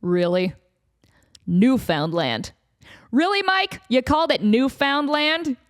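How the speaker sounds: disbelieving scold; exasperated boss. Retold or imitated. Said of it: "the higher-ups are just like".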